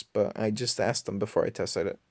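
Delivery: interrupted by a hiccup; talking through hiccups. Real, not acted. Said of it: "I'm getting the hiccups".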